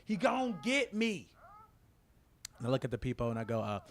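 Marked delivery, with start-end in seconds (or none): 0.1-1.3 high-pitched, drawn-out mock wail; mock panicked cry. Retelling a woman's plea at the door, mock panicked cry. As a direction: stretch it out high and slow, imitating someone in panic.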